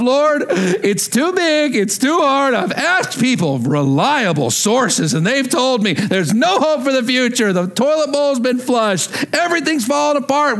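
high, slow despairing lament; mock despair. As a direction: play the hopeless doubter crying to the Lord. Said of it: "through the perspective of".

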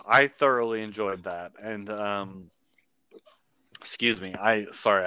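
hiccups breaking through speech; talking while fighting off hiccups; suppressing hiccups. Real, not acted. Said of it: "I've got the hiccups real bad right now".

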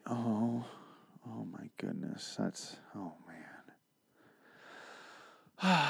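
mock horrified hush; hushed shock. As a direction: gasp at something awful, under your breath. Characters find hanged zombie.

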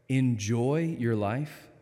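slow disbelieving echo with enjoy rising; incredulous. Shown as a demonstration. Preacher mocking the bus slogan, slow and incredulous. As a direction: repeat it back as if it's absurd. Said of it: "I'm sorry".

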